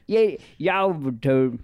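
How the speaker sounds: slow, drawled rapper impression. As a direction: drag the words out like the rapper. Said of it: "You wanna hear my Young Gravy impression?".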